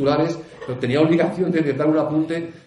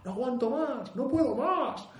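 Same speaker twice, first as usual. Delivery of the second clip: imitated crying girl; 10 semitones higher, slower than usual. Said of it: "se puso a llorar".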